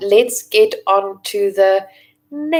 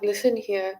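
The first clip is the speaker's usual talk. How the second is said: through gritted teeth. Retold or imitated. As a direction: speak through your teeth. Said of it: "speaking through my teeth, gritting my teeth".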